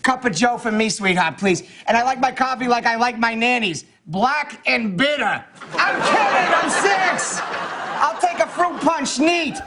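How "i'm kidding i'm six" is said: laughing through the line. Real, not acted. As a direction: break up laughing as you speak. Breaking into laughter mid-line.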